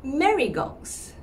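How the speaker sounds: Marigox slowly, X sounded; slow wrong Marigox; mispronounced Marigox. Shown as a demonstration.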